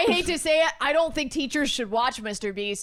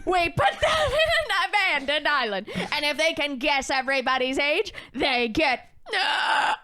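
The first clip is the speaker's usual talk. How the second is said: granny voice. Pretend. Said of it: "Leslie's granny voice".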